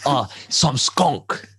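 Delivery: slow, lightly imitated Jamaican accent; Jamaican old man. Old man specifies what he wants, slow Jamaican accent.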